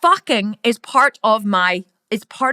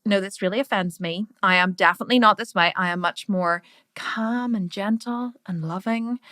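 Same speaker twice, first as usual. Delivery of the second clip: mock offended viewer; 4 semitones lower, 6 dB quieter than usual.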